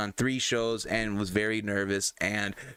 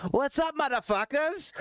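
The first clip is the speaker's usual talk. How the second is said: higher, mock blasted greeting; imitating Dove's greeting; 14 semitones higher than usual. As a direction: mimic Dove bursting into the chat. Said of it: "Dove just blasts out".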